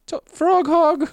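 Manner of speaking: shrill battle shout; yelling. Acted. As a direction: scream the taunt at him. Character yells at Talos.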